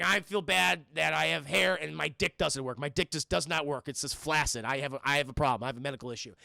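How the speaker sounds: a hint of a sad bald man; lightly voiced embarrassed man.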